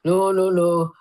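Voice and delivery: lightly voiced firm Scottish dad; mild Scottish telling-off; stern Scottish dad. Scottish dad forbids watching the comedian, mild Scottish scolding. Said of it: "in a very Scottish way".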